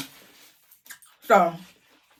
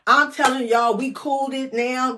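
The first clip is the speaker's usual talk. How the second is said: louder and higher, hyped; excited; 5 semitones higher, 4 dB louder than usual. Real, not acted. Hyping the party story to viewers, excited. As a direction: build the hype.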